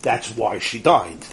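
low, soft, slow statement of fact; detached, literal reply; technical answer. Retold or imitated. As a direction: explain it quietly, without feeling. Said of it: "it's just technical".

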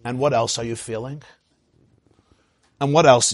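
a mild mock therapist prompt. Therapist routinely prompting a client on the couch, lightly mocked. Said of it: "Every ten minutes, they're like".

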